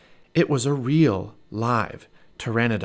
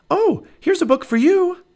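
put-on high excited girl's voice; little girl Annie; 8 dB louder than usual. Annie calls to Jack, high excited little girl. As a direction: Annie calling out, bright and high.

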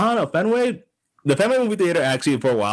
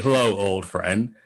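eager stranger greeting; slower than usual. Retold or imitated. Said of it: "he has that, huh?".

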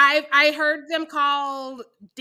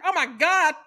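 mock swoon; 5 semitones higher, 7 dB louder than usual. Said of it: "And I was like".

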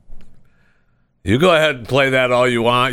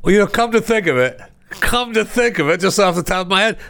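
higher, playful fake musing; mock pondering; 8 semitones higher than usual. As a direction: pretend the idea just came to you. Mock musing before a joke pitch.

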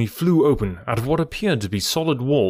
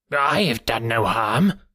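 slow, cringing protest; cowering culprit's slow denial; uneasy, shrinking; slower than usual. A narrator's reading. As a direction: plead innocence uneasily, drawing it out. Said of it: "gave an uneasy laugh, shrinking back".

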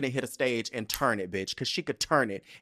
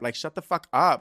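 louder exasperated outburst; 3 semitones higher, 6 dB louder than usual. Real, not acted. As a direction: snap it out, fed up. Exasperated rant at critics.

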